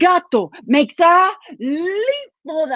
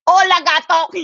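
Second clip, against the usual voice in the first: brother mouse; 3 semitones higher, 4 dB louder than usual. Acted. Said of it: "and he said".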